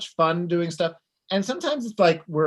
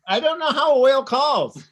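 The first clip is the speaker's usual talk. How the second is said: excited laugh; 10 semitones higher, 8 dB louder than usual. Real, not acted. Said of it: "do your best whale call for me".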